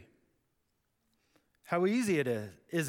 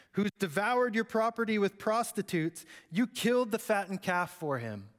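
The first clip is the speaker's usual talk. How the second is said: put-on the older son airing his hurt; resentful complaint. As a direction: list every wrong done to you. Older son's angry complaint.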